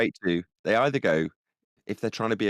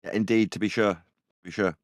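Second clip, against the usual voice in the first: mock stage Irish; 2 semitones lower than usual. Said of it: "So when you try and take off my accent".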